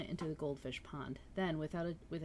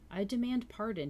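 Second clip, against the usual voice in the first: loud, higher call for pardon; cried out; 6 semitones higher, 6 dB louder than usual. A narrator's reading. Poirot interrupting the pair from above, loudly calling out. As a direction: announce himself with a raised voice. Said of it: "he cried".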